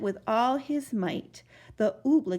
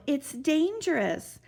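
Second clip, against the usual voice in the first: pleading; 6 semitones higher than usual. Acted. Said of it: "pleaded Bartholomew".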